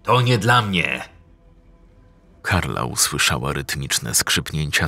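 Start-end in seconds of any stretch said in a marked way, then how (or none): 0.0-1.1 loud, high angry order; father snapping at his son to hand over the water; angry demand. Acted. Old man demands water from son.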